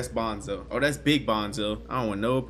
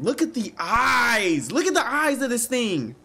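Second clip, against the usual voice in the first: creeped-out alarm; 9 semitones higher, 3 dB louder than usual. Real, not acted. Creepy eyes in game.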